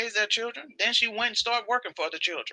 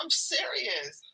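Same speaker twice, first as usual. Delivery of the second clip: whisper; 4 semitones higher, 6 dB quieter, much slower than usual. Real, not acted. Whispered aside.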